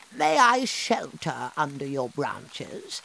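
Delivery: a lightly voiced old woman; old woman asking. Old woman asking shelter from the rain, humble. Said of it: "said the old woman".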